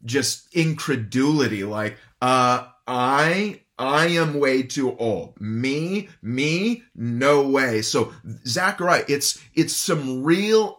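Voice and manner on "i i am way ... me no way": incredulous. Retold or imitated. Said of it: "more of a tone of just incredulity".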